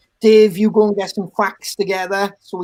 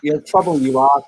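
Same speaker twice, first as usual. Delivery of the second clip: a light Bristolian lilt on "You're trouble, you are"; Bristolian accent; 4 semitones lower than usual. Acted. Host teasing the girls in a light Bristolian accent. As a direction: tease them in a mild West Country accent. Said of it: "that was my Bristolian".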